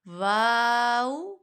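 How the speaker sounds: واو held long; letter name, drawn out. Shown as a demonstration. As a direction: hold واو for its full length. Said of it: "ہر حرف کی مقدار پوری کرنی ہے". (واو کھینچ کر)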